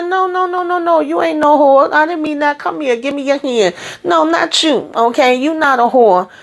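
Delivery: high anxious no no no; high pleading reassurance. Retold or imitated. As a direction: voice jumps high, soothing and insistent. Priscilla pleading with Bobby.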